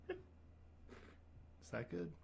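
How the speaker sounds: breathless whisper, barely voiced. Whispering to his date whether it sounded right. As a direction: whisper the question like a shy child. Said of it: "What was it even?".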